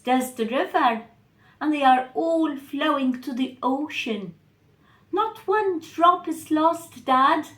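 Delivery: convince dad, quick and earnest; lightly voiced eager child explaining; explaining daughter. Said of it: "But Eva explained".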